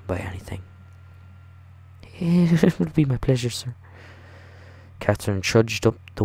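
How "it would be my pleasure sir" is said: put-on high little girl voice with a giggle; young girl accepting with a shy giggle. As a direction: pitch up and giggle mid-line. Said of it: "my girl voice".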